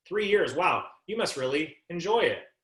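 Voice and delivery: a slow, impressed statement that invites an answer on "enjoy it"; questioning inflection on a statement. Shown as a demonstration. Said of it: "Listen to my voice inflection".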